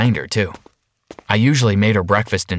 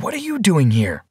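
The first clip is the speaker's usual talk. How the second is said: surprised call; 6 semitones higher than usual. A narrator's reading. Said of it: "I cried".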